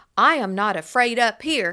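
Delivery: self-assured, very loud, confident delivery. A little boy leaning on the Savior's knee speaks up, said confidently. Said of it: "said confidently".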